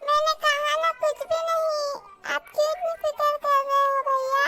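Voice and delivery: holding back tears. Acted. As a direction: pretend you're fine through tears. Hiding her crying from brother.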